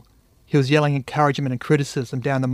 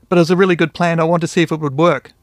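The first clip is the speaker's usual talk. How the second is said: eager defence; 3 semitones higher, 7 dB louder, faster than usual. A narrator's reading. Buddy defending his trick.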